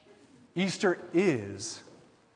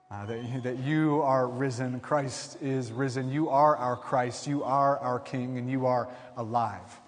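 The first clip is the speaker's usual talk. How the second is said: spoken prayer; 2 semitones lower than usual. Real, not acted. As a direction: pray it earnestly and unhurried. Pastor leads the opening prayer.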